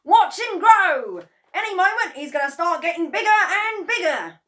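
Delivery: high, loud eager cry; can hardly wait; excited. A narrator's reading. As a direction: Mr Kranky cheering the cockerel on, high and loud. Mr Kranky excited.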